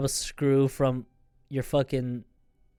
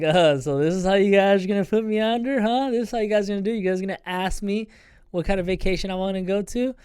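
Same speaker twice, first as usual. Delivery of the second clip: half laughing; 4 semitones higher, 3 dB louder than usual. Retold or imitated. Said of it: "I'm like".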